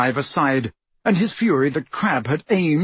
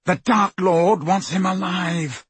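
urgent shout; 5 semitones higher than usual. A narrator's reading. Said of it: "Malfoy shouted".

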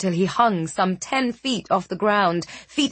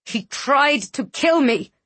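snarling; 6 semitones higher than usual. Acted.

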